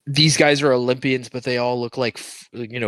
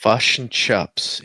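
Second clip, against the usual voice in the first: slow Kiwi "fush and chups", sounding it out; attempted New Zealand accent; much slower than usual. Shown as a demonstration. Trying the co-host's lesson, New Zealand accent. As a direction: slowly test the New Zealand vowels. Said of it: "you want to speak New Ze".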